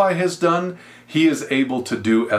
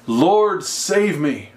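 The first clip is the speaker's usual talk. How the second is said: acted plea for help; 4 semitones higher, much slower than usual. Acted cry for help to God.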